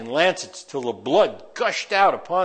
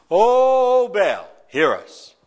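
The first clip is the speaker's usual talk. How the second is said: high, loud pleading call; desperate cry to an idol; crying out to Baal; 5 semitones higher, 4 dB louder, much slower than usual. Acted. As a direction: call out to your god with the crowd.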